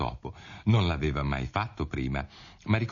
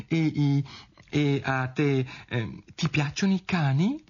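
higher, faltering Alice; tentative, halting, raised pitch; hesitant question; 9 semitones higher, slower than usual. A narrator's reading. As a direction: grope awkwardly for a new topic. Alice hesitantly changes the subject.

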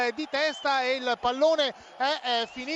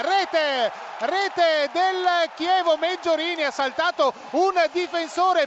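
excited goal call; 2 semitones higher than usual. Real, not acted. Goal call in live commentary.

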